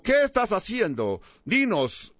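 a mild commanding demand, pitched a little up. Acted. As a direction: order him to answer, only lightly pushed. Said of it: "con una voz ordenativa".

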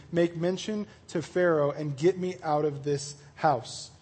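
measured read-aloud of a Bible story; scripture reading. Acted. Preacher reading Genesis to his group, measured narration. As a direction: read the passage out evenly.

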